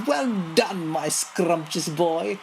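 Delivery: high delighted praise; joyful cry. Acted. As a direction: gush with glee. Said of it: "leaps high with joy and cries".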